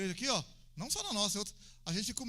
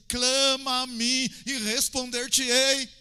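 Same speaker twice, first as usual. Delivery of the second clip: slow, loud, higher proclamation; booming scripture cry; 4 semitones higher, 9 dB louder, much slower than usual. Acted. Preacher quoting God's call to the congregation, booming. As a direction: thunder the verse out, stretching the words.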